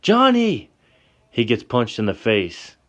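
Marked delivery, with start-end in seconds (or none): 0.0-0.7 very high, loud shriek of his name; piercing desperate cry; tearful scream. Acted. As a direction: scream it through tears. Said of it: "Through the tears, she screams".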